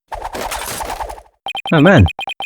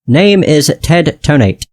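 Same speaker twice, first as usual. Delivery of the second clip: slow, monotone robot voice; 2 semitones higher, much slower than usual. Acted. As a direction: speak like a machine. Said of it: "what a strange robotic voice you have".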